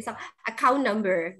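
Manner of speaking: teacher repeats to remember; stress on account. Shown as a demonstration. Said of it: "Mudah-mudahan bisa diingat ya".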